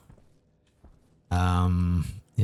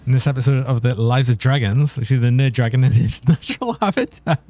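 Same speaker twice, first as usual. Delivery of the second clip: grand wildlife narrator voice, louder; nature documentary; 4 semitones higher, 5 dB louder than usual. Pretend. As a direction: announce it like a nature show host.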